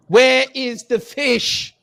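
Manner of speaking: hammed-up British indignation; mock outrage. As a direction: demand it, drawn out and shocked.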